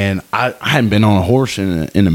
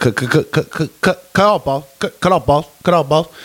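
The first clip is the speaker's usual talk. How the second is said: halting stammer on "cut", repeated, pitched up; 8 semitones higher than usual. Imitating the man in the videos who stutters: imitating a stuttering man. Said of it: "the guy that's stuttering".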